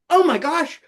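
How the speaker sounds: high, fast, thrilled gush; excited boss. Retold or imitated. The promotions boss reacts to the puppet skit, high and thrilled. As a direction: blurt it out like you've found a star. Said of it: "the boss of promotions was like".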